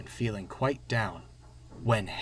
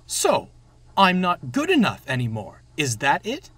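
lightly voiced indignant engine, louder; offended tank engine character; 2 semitones higher, 6 dB louder than usual. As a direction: play an engine taking offence.

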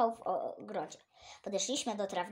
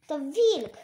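high, loud alarmed shout; 5 semitones higher, 9 dB louder than usual. Acted. Child spotting the wolf, shouting in alarm. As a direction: yell out the warning in fright. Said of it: "ktoś krzyknął".

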